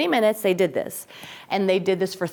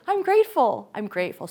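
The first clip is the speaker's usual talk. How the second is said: sing-song grateful chant; mock grateful voice; 3 semitones higher than usual. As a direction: gush it then let it fade. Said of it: "more Paul that says".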